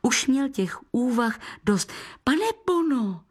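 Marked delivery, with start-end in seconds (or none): 2.2-3.2 put-on high eager call from a boy; impatient boy calling to the guest. A narrator's reading.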